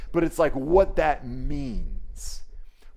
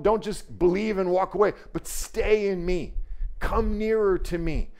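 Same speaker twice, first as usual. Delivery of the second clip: Jesus pleading; 3 semitones higher than usual. Acted. Jesus urging believers to stay near him, pleading. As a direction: draw them nearer, pleading. Preacher voicing Jesus inviting.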